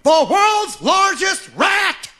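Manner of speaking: slow booming freak-show barker cry; sideshow barker yell. Retold or imitated. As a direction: bellow it slowly like a fair barker pulling in a crowd. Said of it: "he was just yelling at people".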